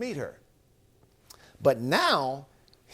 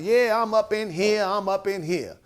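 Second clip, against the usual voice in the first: loud, higher showy mimicry of noisy folks; hammed-up brag, louder and higher; mock loud boasting; 4 semitones higher, 4 dB louder than usual. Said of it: "they'll go loud, making noise".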